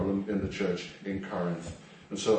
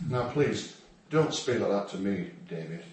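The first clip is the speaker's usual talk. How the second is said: mock soft rebuke; 4 semitones lower than usual. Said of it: "if you drop somebody's name in".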